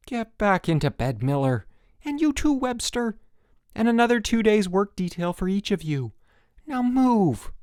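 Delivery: high, loud barked orders; stern orders. A narrator's reading. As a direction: bark the orders. Counselor ordering campers to bed.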